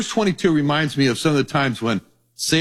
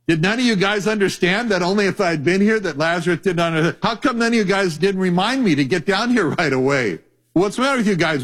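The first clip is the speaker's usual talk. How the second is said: higher, quick incredulous scolding; mock exasperation; 4 semitones higher than usual. Jesus scolding disciples for not reminding him, exasperated. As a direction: pile on the rhetorical questions, bemused.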